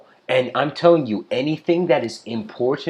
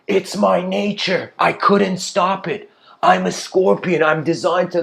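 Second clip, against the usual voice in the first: broken, shattered; 5 semitones higher, 4 dB louder than usual. Retold or imitated. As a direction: plead helplessly as the shattered scorpion. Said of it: "And the scorpion is broken, shattered".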